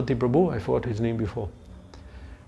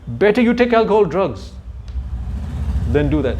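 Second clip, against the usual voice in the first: mock outraged parents; 4 semitones higher than usual. Parents scolding son joining temple.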